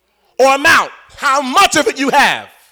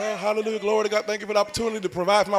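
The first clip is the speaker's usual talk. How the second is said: mock grateful prayer; 3 semitones lower, 11 dB quieter, much faster than usual. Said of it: "I'm like".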